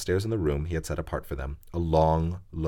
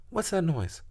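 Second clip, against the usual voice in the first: startled Lucy; 12 semitones higher than usual. Acted.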